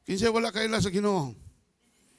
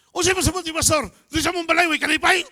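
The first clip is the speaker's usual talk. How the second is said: higher, louder offended retort; indignant mother; 6 semitones higher, 6 dB louder, faster than usual. Retold or imitated. Mother objecting to the pastor, higher and louder. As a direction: bristle like a mother insulted.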